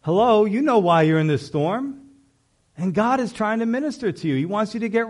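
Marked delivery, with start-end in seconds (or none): 0.0-2.0 loud, sarcastic "Duh, hello" to someone clueless; mock exasperated duh. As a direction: scoff at the obvious like talking to a clueless friend. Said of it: "And you're like".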